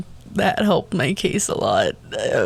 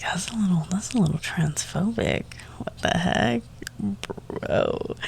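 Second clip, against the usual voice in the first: hushed whisper, barely voiced; whispered aside; 7 dB quieter than usual. Muttering to herself on the bus, whispered disapproval. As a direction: whisper it so she can't hear. Private aside about a transphobic remark.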